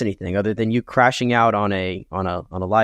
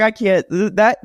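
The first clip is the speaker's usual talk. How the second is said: exasperated outburst; 10 semitones higher, 4 dB louder than usual. Retold or imitated. Exasperated retold reaction.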